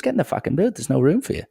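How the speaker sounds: mock yelled order. Retelling Damien ordering him into boot.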